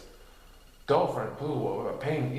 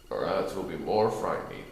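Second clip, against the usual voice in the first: gentle Eeyore; 6 semitones lower than usual. A narrator's reading. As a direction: offer it gently and glumly. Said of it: "suggested Eeyore gently".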